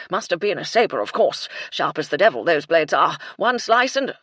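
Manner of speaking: put-on loud, gleeful old colonel; with relish. Colonel relishing the murder talk, loud and gleeful. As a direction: savour every gory word.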